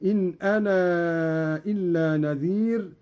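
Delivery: "أنا" with a long aa carried into "إلا"; separated madd. Shown as a demonstration. Teacher demonstrates Qalun lengthening "أنا". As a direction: stretch the final aa of "أنا". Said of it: "مدا منفصلا هكذا".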